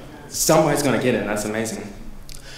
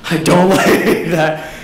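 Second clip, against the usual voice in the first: laughing through "I don't like that"; laughing disgust; 2 semitones higher, much slower than usual. Retold or imitated. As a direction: say it slow, laughing and creeped out. Creeped out by smiling ponies.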